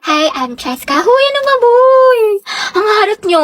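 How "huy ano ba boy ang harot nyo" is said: cutesy act leaping into high squeals; drawn-out coy intro, then high, loud giggly protest; pabebe. Acted. Student introducing herself to teasing classmates, pabebe. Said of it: "Ang pabebe".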